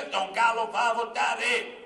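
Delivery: loud, slow proclamation; defiant announcement. Retold or imitated. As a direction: proclaim it slowly, for all to hear. Reads out his defiant announcement. (proclamazione solenne e sonora)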